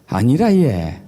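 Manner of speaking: swooping Gyeongsang accent; Gyeongsang dialect. Shown as a demonstration. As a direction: rise and fall like a Gyeongsang local. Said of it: "경상도는".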